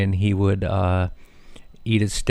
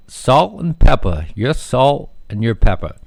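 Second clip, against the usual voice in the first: loud teasing blurt; 3 semitones higher, 5 dB louder than usual. Retold or imitated. Father blurts joke at date.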